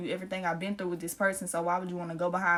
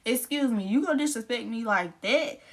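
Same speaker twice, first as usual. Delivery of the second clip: going off; 3 semitones higher than usual. Retold or imitated. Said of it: "going off on him".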